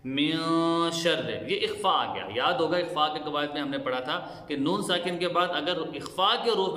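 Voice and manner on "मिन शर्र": मिन शर्र, noon hidden in the nose; ikhfa. Shown as a demonstration. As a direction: hide the noon of मिन nasally, slow. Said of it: "आवाज़ को नाक में छुपा कर गुना करें". (इख्फा के साथ मिन शर्र)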